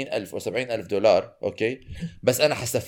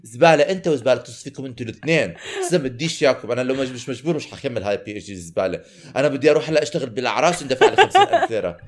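laughing mock rant. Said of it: "راح أدخل عليهم بحكي لهم".

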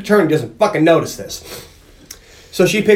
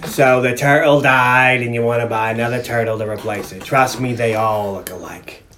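Christmas Vacation dude; 5 semitones lower than usual. Acted. Turtle seller tells a customer they all look alike, low character impression. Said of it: "It's a dude from Christmas Vacation".

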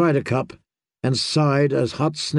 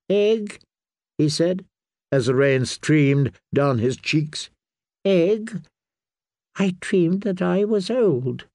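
high, slow and confused, waking from a dream; an old man mistaking Sam for a lost friend; dreamy old maester; 4 semitones higher, slower than usual. A narrator's reading.

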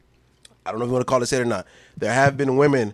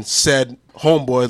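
Amos voice; 4 dB louder, slower than usual. Retold or imitated. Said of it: "doing the Amos voice and saying, "Said homeboy".

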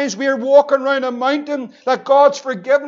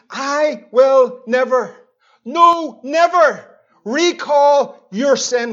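slow solemn God voice; 2 semitones higher, 4 dB louder, much slower than usual. Acted.

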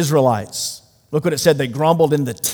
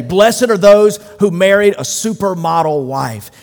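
building, louder ironic listing; mock beatitudes; 5 dB louder than usual. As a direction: parody what people think is blessed. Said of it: "No, he says".

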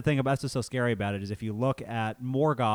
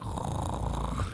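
mock snarl; 4 dB quieter than usual. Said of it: "just snarling in the corner".

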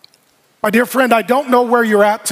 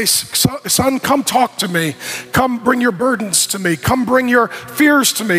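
gentle father; 2 semitones higher than usual. Acted. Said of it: "And the Father would say".

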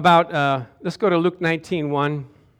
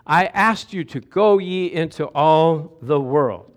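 voice of God; 3 semitones lower, slower than usual. Retold or imitated. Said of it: "He's gonna say".

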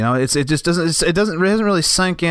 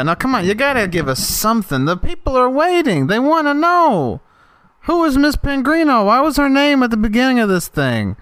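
hammed-up excitement; 11 semitones higher than usual. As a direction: ham up the big reveal pressure. Hammed-up demand for answers.

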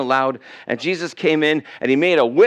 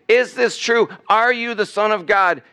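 high, pleading questions; crying out; 7 semitones higher than usual. Acted. Lost person calling out to Jesus, crying out. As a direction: raise the voice in an urgent appeal. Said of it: "If you cry out to him now".

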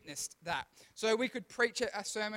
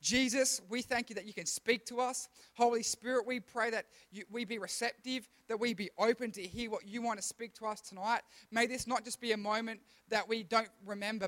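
prayer voice. Acted. Leads a prayer.

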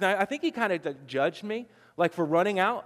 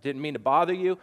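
super nice apology; 5 semitones lower than usual. Retold or imitated. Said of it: "I tried to be super nice".

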